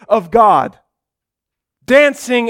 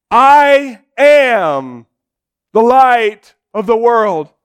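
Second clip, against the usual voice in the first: building declaration. Acted. Jesus telling the festival crowd it is all for him, building. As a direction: proclaim it to the whole crowd.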